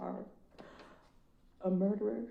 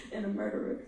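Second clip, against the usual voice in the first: ordinary delivery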